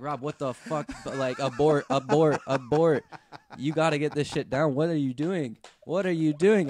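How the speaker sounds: loud, high, panicked shout with laughter breaking through. Retold or imitated. Shouting at tour manager Rob to abort, frantic and loud. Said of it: "I got my tour manager like".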